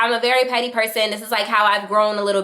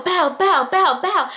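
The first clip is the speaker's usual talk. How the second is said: punch sound effect; 8 semitones higher, slower than usual. Retold or imitated. Imitating punches.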